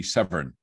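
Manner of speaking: Severn with an R sound, sev-ern; seven spoken as Severn, Gloucestershire style; local Gloucestershire pronunciation. Shown as a demonstration. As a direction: say Severn with a rolled-in R like the local accent. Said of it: "in the local accent where I grew up would be Severn".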